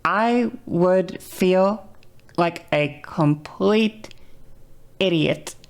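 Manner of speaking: a hint of the practiced fem voice; demo practice voice. Shown as a demonstration. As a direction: keep the lifted voice, dragging it out. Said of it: "talk like this".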